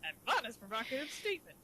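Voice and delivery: a hint of cartoon crab boss; lightly voiced sea captain; Mister Krabs. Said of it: "the Mister Krabs voice".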